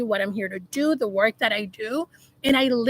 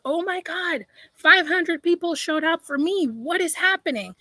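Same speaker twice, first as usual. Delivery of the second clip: higher-pitched mock alarm; retold panic; 5 semitones higher than usual. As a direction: relive the startled overwhelm in a higher voice. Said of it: "I got scared".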